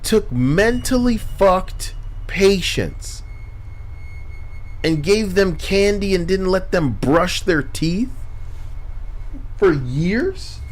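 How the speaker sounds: can't believe what you just read; outraged disbelief. Real, not acted. Outraged reaction to fact.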